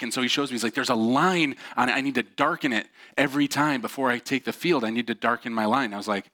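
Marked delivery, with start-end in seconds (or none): 0.7-5.9 higher-pitched mock desperation; retold frantic urgency without real tears; frantic, near tears. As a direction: imitate an insistent, worked-up plea. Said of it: "almost like he's on the verge of tears".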